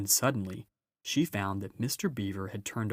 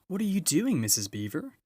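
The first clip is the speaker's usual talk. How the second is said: exclaiming; 9 semitones higher, 4 dB louder than usual. Acted. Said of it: "exclaimed Susan".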